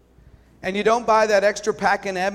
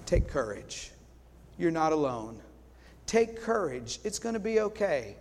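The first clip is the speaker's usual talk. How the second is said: gentle encouragement. Pretend. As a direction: speak it tenderly to someone struggling. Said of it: "you'll say".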